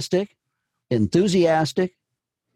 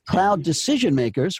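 "decision makers" carries the emphasis, "cloud" passed over; coach's demo, punching "decision makers" over "cloud"; stress on DECISION MAKERS; 2 semitones higher than usual. Shown as a demonstration. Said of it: "put the emphasis on decision makers".

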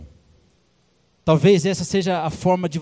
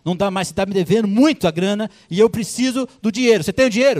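a stern king pressing his servant, louder; a king demanding his money back, voice rising; king demanding payment from his servant; 3 semitones higher, 5 dB louder than usual. Acted. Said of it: "ele falou assim".

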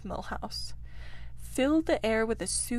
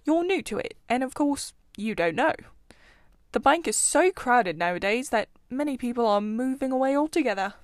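louder, kindly explaining to a newcomer; patient forbearance; 2 semitones higher, 6 dB louder than usual. Acted. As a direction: bear with him, patiently. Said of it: "with a forbearance".

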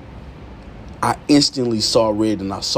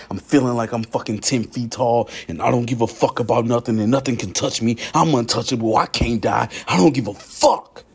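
invincible defiance; 2 semitones higher than usual. Acted. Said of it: "I got this fucking demon in me".

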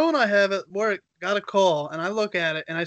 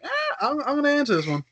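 giving in; 9 semitones higher than usual. Retold or imitated. Retold impulse to take the call.

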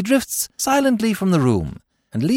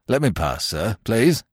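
civil; 7 semitones lower, 3 dB quieter than usual. A narrator's reading. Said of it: "he said civilly".

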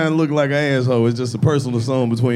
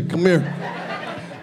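cupped hand whisper; 2 semitones higher, 6 dB quieter than usual. Retold or imitated. Drunk guy whispering, unvoiced.

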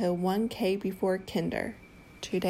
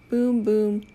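thunder boom; 5 dB louder than usual. Pretend. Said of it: "makes thunder".

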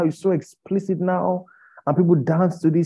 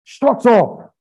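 high, loud, slow shout; pained outburst; 6 semitones higher, 7 dB louder, much slower than usual. Real, not acted. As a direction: shout it out, anguished and stretched. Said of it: "it's so painful".

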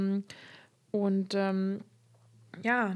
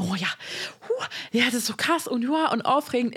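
excited reaction; 2 semitones higher, faster than usual. Acted. Imagining a newly open couple's thoughts, lightly acted excitement. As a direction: act out a mildly giddy thrill. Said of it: "dann denkt ihr".

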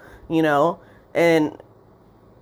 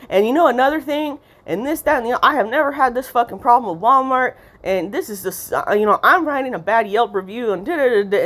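ranting customer; 5 semitones higher than usual. Retold or imitated. Voicing angry customer's second rant.

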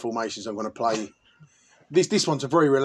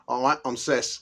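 punchline voice; 3 dB quieter, slower than usual. Acted. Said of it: "big fat cunt sitting there naked going".

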